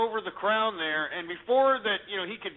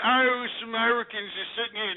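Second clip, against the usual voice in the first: lightly mocking the caller, a little higher; 4 semitones higher than usual. Host mocking the Welsh caller's claim, lightly voiced. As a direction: throw his claim back with a faint sneer. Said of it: "to sit here and say that".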